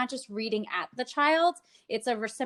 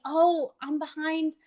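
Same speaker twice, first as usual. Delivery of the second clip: playful hide-and-seek; 6 semitones higher, 3 dB louder than usual. Shown as a demonstration. Therapist hiding behind a book on Zoom, playful. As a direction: tease the child to find you. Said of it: "having the child try to find me".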